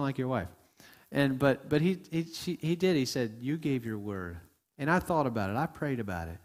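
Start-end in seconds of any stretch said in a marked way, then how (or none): 3.4-4.4 softly spoken, lowered reminder; gently convict in a low, soft voice; quiet and gentle. Acted. Pastor retelling what the Holy Spirit told him, quiet and gentle. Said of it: "spoke to me so quietly and so gently".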